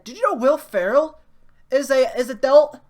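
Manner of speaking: loud, high-pitched mock drunk frat guy; imitating drunk guy. Drunk frat guy giving newcomers a house tour, loud imitation. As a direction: blurt it out like a drunk party host. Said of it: "he had been drinking since".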